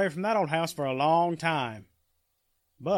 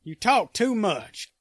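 slow, louder menacing threat; menacing warning; 6 semitones higher, 5 dB louder, slower than usual. Acted. Zeke cutting off Annie's questions, slow and menacing. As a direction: spell the threat out slowly. Villain silencing captive.

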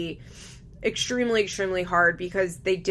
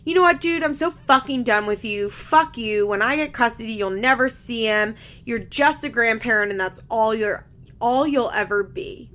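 hammed-up blow-up at the grandma; retelling a mother cursing out grandma, mock fury; mock angry rant; 3 semitones higher, 4 dB louder than usual. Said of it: "Janelle's like".

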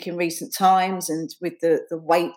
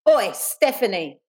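slow calling-out, drawn out; understated schoolgirl yell; mild acted yell; 2 semitones higher than usual. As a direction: hail a girl ahead, roughly. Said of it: "Dawn yelled".

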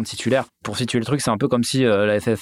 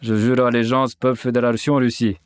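light mock Russian accent reading an oath; broken French with a Russian accent. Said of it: "je veux prendre l'accent russe".

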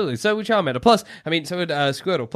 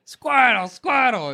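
raspy Squirtle voice; smoker's rasp; 7 semitones higher, slower than usual. Pretend. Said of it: "smoker's voice".

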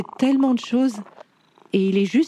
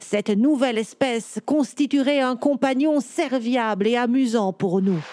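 voix de chat lente et posée; réponds en vieux chat sage; chat savant posé; slower than usual. Acted. Cat tells how man appeared. (chat érudit, ton lent et assuré)

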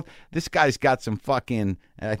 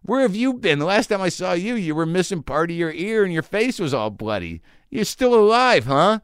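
amazed greeting; 5 semitones higher than usual. Retold or imitated. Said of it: "I'm like".

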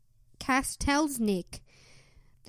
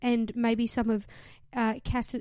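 lightly voiced Cass reading her diary; a mild mock of an earnest wish list; a hint of a sweet, hopeful diary voice; Cass impersonation. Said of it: "That was a pretty good impersonation".

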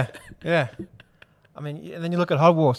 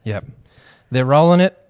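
loud matey lad banter; 4 dB louder than usual. Real, not acted. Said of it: "You sound like every bloke that's down on the front bar".

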